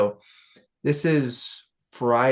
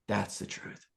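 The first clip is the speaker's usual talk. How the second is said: trailing quiet; 3 semitones lower, 11 dB quieter than usual. Retold or imitated. Retelling his speech to the hippies.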